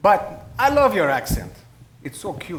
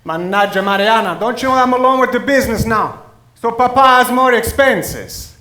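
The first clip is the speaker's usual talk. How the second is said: exasperated; 3 semitones higher, 5 dB louder than usual. Acted. Father defends cancelling the trip.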